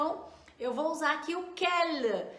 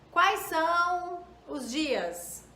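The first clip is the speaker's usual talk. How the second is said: slow example; 3 semitones higher, much slower than usual. Shown as a demonstration. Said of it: "se eu quiser perguntar assim".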